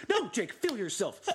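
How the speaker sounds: half-joking pep talk to a player; urging Jake on. Retold or imitated. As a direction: push him to let loose. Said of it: "and it's like".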